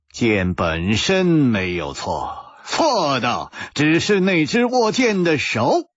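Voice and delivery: slow, each word set apart. A narrator's reading. Hero tells the troubled swordsman, word by word. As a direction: spell out the lesson one word at a time. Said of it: "一字字地说".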